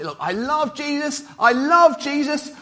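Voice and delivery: gushing believer. Acted. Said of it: "some people say who emphasise love".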